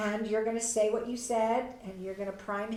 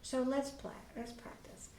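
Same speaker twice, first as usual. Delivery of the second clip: softer, almost whispered reassurance; reassuring parent; 5 dB quieter than usual. Shown as a demonstration. Parent offering child help, soft hushed reassurance. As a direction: promise help gently, fading to a whisper. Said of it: "You're gonna be just kinda going".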